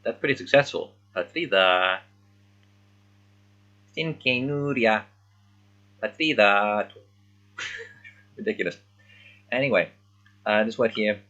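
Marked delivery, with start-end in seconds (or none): 1.1-6.9 imitating annoying. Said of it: "if she's meant to sound annoying".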